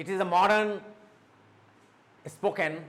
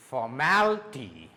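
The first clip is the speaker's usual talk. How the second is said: formality slow, MAL raised, then falling on ty; stress on MAL; 5 semitones lower than usual. Shown as a demonstration. Teacher giving correct pronunciation of formality, stress on MAL. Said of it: "the correct pronunciation is that".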